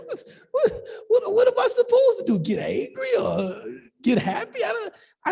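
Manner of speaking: high, laughing protest; accused of jealousy, laughing back; laughing exasperation. Real, not acted.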